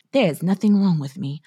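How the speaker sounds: slightly hammed-up British accent; self-satisfied British voice, drawn out at the end. Woman mocking her own blamelessness, put-on British accent. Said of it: "I always speak in a British accent".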